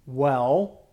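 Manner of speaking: "well" set apart after a pause, drawn out; stress on well. Shown as a demonstration. Teacher reading the verse to the class, stress on "well". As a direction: lean on "well" as a word of its own. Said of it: "The emphasis is on the word well here".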